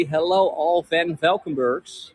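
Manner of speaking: mock English accent, slow and drawn out; playful put-on English accent. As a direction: greet them like an English butler. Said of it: "in my most, uh, English accent".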